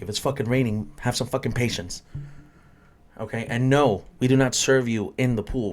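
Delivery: exasperated rant. Real, not acted. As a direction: scold the guests, really annoyed. Bartender pet peeve rant.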